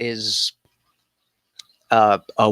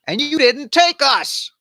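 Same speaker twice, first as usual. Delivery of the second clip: higher, slightly louder petulant complaint; whiny Ephraimites; 11 semitones higher, 3 dB louder than usual. Retold or imitated. Ephraimites complaining to Jephthah, whiny high mock voice. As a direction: whine like left-out kids. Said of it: "And they say".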